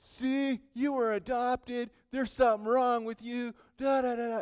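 high-pitched schoolgirl taunt; mocking taunt. Girl making fun of an adopted girl, mocking taunt. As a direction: tease in a high mock-girl voice. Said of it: "making fun of the adopted girl".

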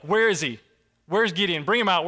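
hammed-up mob; mock angry crowd. Townspeople hunting Gideon after the altar falls, mock angry.

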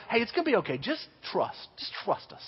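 soft, hushed, soothing counselor; compassionate reassurance. Retold or imitated. Counselor walking beside a scared camper, hushed reassurance. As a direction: gently coax a frightened kid in a near-whisper. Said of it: "some kind of compassionate".

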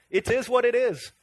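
put-on resigned shrug in an amateur Scottish accent; hammed-up Scottish accent; mock Scottish accent. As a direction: shrug it off as a pretend Scot. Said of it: "I get my accents mixed up".

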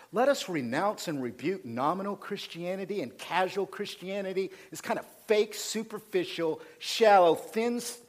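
building preacher's fervor, rising in pitch; fired up. Real, not acted. Preacher renouncing casual Christianity, getting fired up. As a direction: get worked up as the list of rebukes grows. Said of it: "I'm getting fired up".

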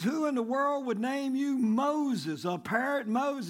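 mock incredulous. Burglar scoffs at a parrot's name, slow mock disbelief. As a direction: stretch it out, lightly acting baffled scorn.

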